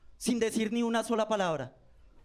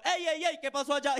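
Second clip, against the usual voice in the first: teacher calling out; 6 semitones higher than usual. Retold or imitated. Profe interviene en la pelea.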